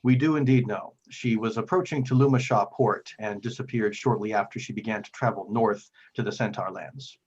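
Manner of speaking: lightly voiced grave cleric, pausing heavily; weighty, formal plea with emphatic phrase openings; solemn Father figure. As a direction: confide painful news with measured earnestness. Game master voices troubled Father Geno.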